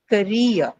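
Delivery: "career" with the stress on -reer; stress on second syllable. Shown as a demonstration. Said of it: "mark it on the second syllable".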